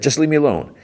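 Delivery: high-pitched mock annoyed brush-off; retold irritation. Conductor wanting to be left alone, imitated high irritated voice. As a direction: imitate him testily pushing her away.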